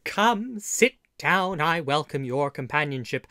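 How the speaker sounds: put-on warm old innkeeper greeting; storyteller host. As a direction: welcome the traveller in, friendly. Host greets listener before story.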